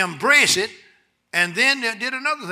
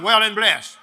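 put-on old deacon's catchphrase; 3 semitones higher, 9 dB louder than usual. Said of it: "One of the oldest men... his words".

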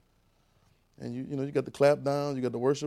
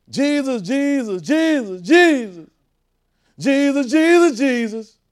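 high, loud calling of the name; 11 semitones higher, 10 dB louder, much slower than usual. Acted. Preacher calls on Jesus, high and loud. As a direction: cry the name out to heaven.

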